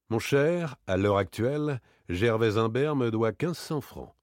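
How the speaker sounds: a touch of exasperation with irony underneath; exasperated. Acted. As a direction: confide it, mildly exasperated and half admiring. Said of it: "me dit d'un ton exaspéré". (légèrement exaspéré, ironique)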